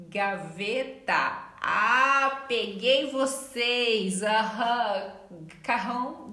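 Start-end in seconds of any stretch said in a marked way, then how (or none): 1.6-5.1 playful gotcha. Real, not acted. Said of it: "teasing the students".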